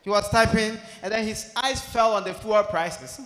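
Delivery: usual speaking voice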